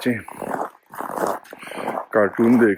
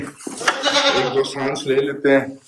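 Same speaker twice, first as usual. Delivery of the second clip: mock meditation breath; 3 dB quieter, much slower than usual. Shown as a demonstration. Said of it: "meditation कर लेते हैं".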